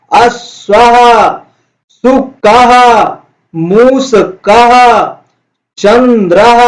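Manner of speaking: slow, drawn-out word drill, each word stretched; slow recitation for class. Shown as a demonstration. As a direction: say each word slowly for pupils to repeat. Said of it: "एक बार फिर से हम उच्चारण करते हैं". (धीमा, खिंचा हुआ उच्चारण)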